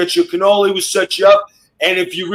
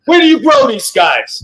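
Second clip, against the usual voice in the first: louder, higher, bursting with laughter; laughing shout; 7 semitones higher, 3 dB louder than usual. Real, not acted. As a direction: blurt it out, cracking up. Host repeats, laughing and louder.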